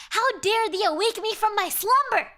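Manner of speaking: demon voice, high and loud, grandly archaic; booming demon. Acted. Creature scolding the fisherman, booming demon voice. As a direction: rouse him as an angry ancient demon. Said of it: "And the creature is like".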